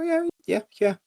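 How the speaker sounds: mock eager yeah. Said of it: "And I go".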